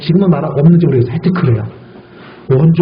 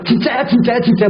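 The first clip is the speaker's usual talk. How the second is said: doubter asking; 5 semitones higher than usual. Retold or imitated. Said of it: "의심하는 사람은 뭐라 해요".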